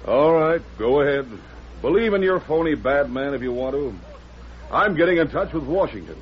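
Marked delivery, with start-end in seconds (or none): 2.2-6.2 indignant. Acted. Greenway storming off in protest.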